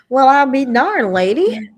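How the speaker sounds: loud, high-pitched, laughing disbelief; mock outrage. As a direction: act scandalized, on the edge of laughter. Mock outrage at her sister's reply.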